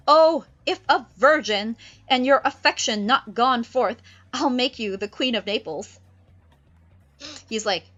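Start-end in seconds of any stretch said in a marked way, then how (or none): 0.1-6.0 put-on louder, eager young prince; Ferdinand's voice. Ferdinand offers Miranda a crown, eager and loud. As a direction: propose grandly. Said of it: "Ferdinand's like".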